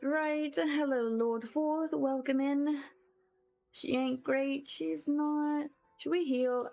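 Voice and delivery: ordinary talk, nothing marked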